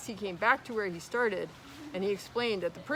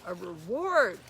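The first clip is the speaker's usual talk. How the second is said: a firm, loud announcement; very loudly; 5 dB louder, slower than usual. Acted. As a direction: lean on it so Pooh surely hears. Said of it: "said Owl very loudly".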